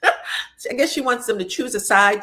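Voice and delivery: laughing at the mother's demand. Real, not acted. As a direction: crack up while repeating it. Repeats line, laughing second time.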